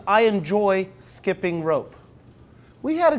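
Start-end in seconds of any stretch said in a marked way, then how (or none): 0.1-1.9 slow, careful reading. Shown as a demonstration. Teacher reading the book line slowly to the class. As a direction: read slowly, each word clear. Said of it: "it starts with".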